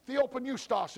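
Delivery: theopneustos said as thee-oh-p-noo-stos; Greek word demo. Shown as a demonstration. Teacher shows the class the Greek word theopneustos, sounded out. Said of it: "is the word".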